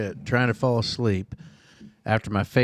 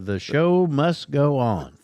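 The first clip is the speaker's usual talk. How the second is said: dramatic; 4 semitones higher, much slower than usual. Pretend. Dramatic declaration.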